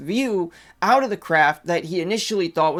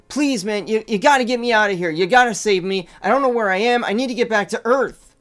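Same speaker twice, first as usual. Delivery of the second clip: mildly urgent plea, quickened; retold pleading; 2 semitones higher, 3 dB louder than usual. Abducted man pleads with a stranger to save him, mildly urgent pleading. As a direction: plead earnestly without fully acting it out. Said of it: "just starts pleading with him".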